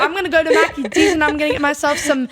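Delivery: brash British lad; loud British accent. Pretend. Girl pretending to be British at a burger place, loud British accent. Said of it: "really loud British".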